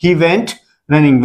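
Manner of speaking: slow, words drawn apart for the class; slow classroom repetition; slow model answer. Shown as a demonstration. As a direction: dictate it slowly. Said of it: "teacher models English answer".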